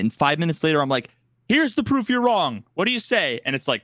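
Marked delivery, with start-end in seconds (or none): 1.5-3.4 triumphant gotcha. Retold or imitated. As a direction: throw the proof high and proud. Triumphant retort.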